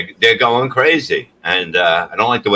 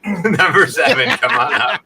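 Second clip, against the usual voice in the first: higher-pitched counter worker's call; calling out orders; 5 semitones higher than usual. Acted. Food counter worker telling John it's ready, calling out. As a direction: call the order across the room.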